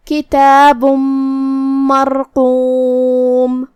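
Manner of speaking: کتاب مرقوم with the tanween merged into the meem, nasal and doubled; idgham with ghunna. Shown as a demonstration. Teacher demonstrates idgham in کتاب مرقوم. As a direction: recite کتاب مرقوم merging bun into mur. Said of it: "تنوین کو میم میں ملا کے غنہ اور تشدید".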